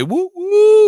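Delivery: high whooping cheer; celebrating, a high loud whoop; excited cheer. Acted. Celebrating the date.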